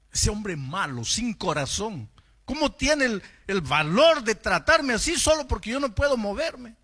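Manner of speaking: building to a high, loud cry; retold indignation, climbing sharply; outraged complaint. Young man complains to God about the pastor, outraged. Retelling an angry prayer against pastor.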